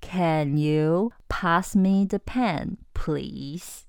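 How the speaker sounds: very slow, gentle asking; polite full-marks request. Shown as a demonstration. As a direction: ask as courteously as you can. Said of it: "怎么样才会满分".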